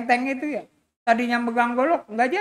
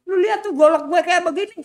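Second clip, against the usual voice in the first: higher, loud show-off; bragging boss; 9 semitones higher, 6 dB louder than usual. Acted. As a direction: show off the blade loudly. Boss brags with machete. (bos begal pamer dengan suara keras dan tinggi)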